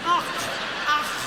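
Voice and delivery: imitated throaty och, repeated; hammed-up fit of ochs; mock choking "och". Woman overcome by what she saw, mock choking ochs. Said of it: "She nearly ocked herself to death".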